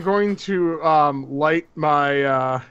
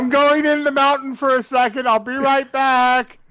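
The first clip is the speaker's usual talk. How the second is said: raised, higher call to the others; 7 semitones higher, 4 dB louder, faster than usual. Acted. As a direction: call it out quickly to companions left behind. Calls out to party from tunnel.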